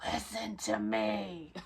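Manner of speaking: slow, smug "Listen to me"; drawn out and pointed; knowing drawl. Retold or imitated. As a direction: lean into it, told-you-so. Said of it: "I'm like".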